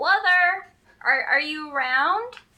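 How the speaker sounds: high, drawn-out yelling. A character joins the search and calls out for a companion, yelling out. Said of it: "join in yelling out".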